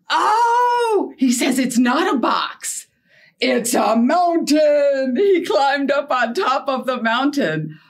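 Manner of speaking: big excited storytime reveal. Acted. Teacher thrilled for the kids at the dog's mountain, excited.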